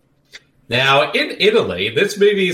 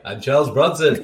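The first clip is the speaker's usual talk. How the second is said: Charles Bronson; 2 semitones lower than usual. Retold or imitated. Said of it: "his Italian accent is like".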